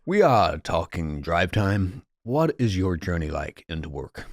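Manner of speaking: slow, lightly voiced drive-time host; a hint of a DJ taking a caller; radio DJ voice. Reviving the DJ bit for his friend, mild radio host voice. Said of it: "being that guy who was hosting a radio".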